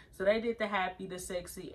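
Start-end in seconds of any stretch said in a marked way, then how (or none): 1.1-1.7 sultry sexy. Retold or imitated. Repeating the sexy pose.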